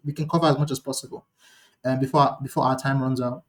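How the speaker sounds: quick, pressed for time; hurried speech. Real, not acted. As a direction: speed up to fit it all in. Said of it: "I'm trying to speak faster".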